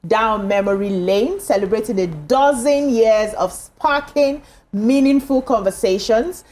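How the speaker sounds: upbeat presenter's anniversary intro; TV show opening. Acted. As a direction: welcome viewers with a lilting, celebratory read. Presenter reads the show's opening.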